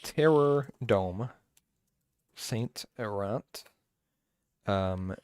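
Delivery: drawn-out words with long gaps; slow dictation to self. Real, not acted. Co-host updating his beer list, slow self-dictation. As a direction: say it slowly while noting it down.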